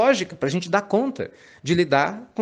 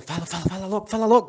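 impatient urging; 4 semitones higher, much faster than usual. Pretend. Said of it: "Porque ansioso é assim".

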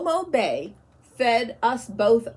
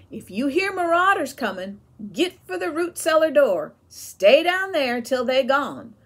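louder, higher, pressing warning; urgent warning; 6 semitones higher, 6 dB louder than usual. A narrator's reading. Mother warning the boys of raiders, urgent and loud. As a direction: drive the danger home.

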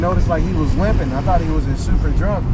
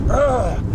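higher-pitched "ugh" of effort; mock falling grunt; imitated stumbling grunt; 7 semitones higher than usual. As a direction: grunt as if lurching over, mimicked. Imitating the man lurching and falling.

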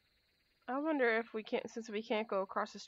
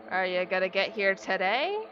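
exasperated; 2 semitones lower, 12 dB louder, slower than usual. Real, not acted. Exasperated at the creeper.

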